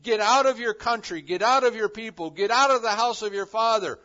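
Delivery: loud, high, insistent orders; God ordering Abram to leave, loud and firm; commanding voice of God. Acted. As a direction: drive each get out home. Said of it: "where God says to Abram".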